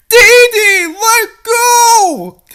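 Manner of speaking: high, loud shouted command; urgent shout. Acted. Rescuer below shouts up to the dangling princess. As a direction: yell up at her to let go.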